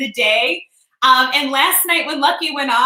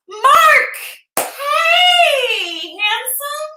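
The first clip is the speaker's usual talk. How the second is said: calling out; 12 semitones higher, much slower than usual. Real, not acted. Calling out to viewer.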